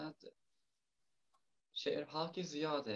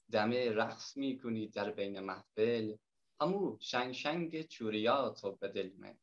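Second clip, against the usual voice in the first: Herati dialect poem read in the poet's own voice; reciting a Herati folk love poem to the guests in Herati accent; 5 dB louder, slower than usual. Acted. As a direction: recite lightly in Herati Persian. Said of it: "به لهجهٔ هراتی گفتم به خوانش بگیرم".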